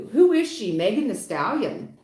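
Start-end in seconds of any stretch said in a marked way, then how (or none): 0.1-0.7 incredulous exclaim. Real, not acted. Reader reacting to cards.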